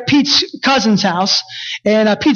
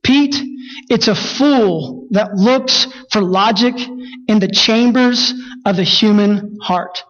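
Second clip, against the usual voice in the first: imitating Everett; slower than usual. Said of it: "Everett responds with this".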